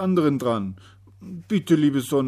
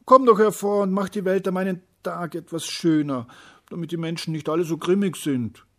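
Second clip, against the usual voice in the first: high and loud, begging; pleading call; 9 semitones higher, 10 dB louder than usual. A narrator's reading. Little day begging the sun loudly to shine. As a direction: call up to the sun to please help. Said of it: "rief er".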